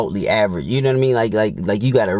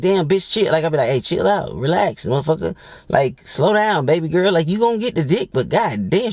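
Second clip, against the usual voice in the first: telling her to chill; 5 semitones higher than usual. Retold or imitated. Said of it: "I'm like".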